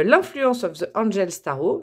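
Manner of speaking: English title in a French accent, slowly. Real, not acted. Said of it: "mon accent anglais". (anglais avec l'accent français)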